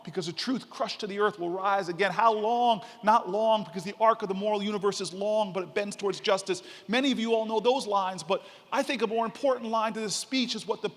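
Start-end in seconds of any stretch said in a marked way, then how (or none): 0.0-6.6 quoting King. Retold or imitated. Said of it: "one of the lines where he says".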